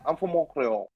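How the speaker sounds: a light French Canadian accent on "Montreal"; "Montreal" said the French Canadian way, mild and offhand. Shown as a demonstration. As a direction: hit them with a touch of Québécois accent. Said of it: "you hit them with the accent".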